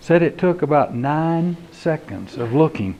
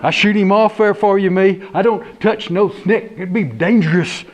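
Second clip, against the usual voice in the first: scared deputy; 3 semitones higher than usual. Acted. Deputy refusing to touch snake, nervous. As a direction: refuse in a jittery rush.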